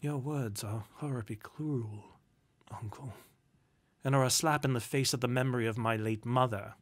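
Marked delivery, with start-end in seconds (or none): 0.0-3.1 softly wounded, trailing away; quietly appalled nephew; shocked hurt. A narrator's reading.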